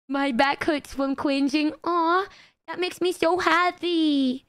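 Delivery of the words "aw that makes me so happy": slow, sugary cute voice; uwu speak. Acted. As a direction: coo it sweetly and slowly. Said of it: "why do you sound so cute".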